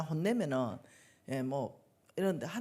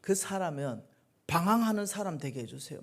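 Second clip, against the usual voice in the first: angry prayer; 4 dB louder than usual. Retold or imitated. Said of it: "막 화를 내면서".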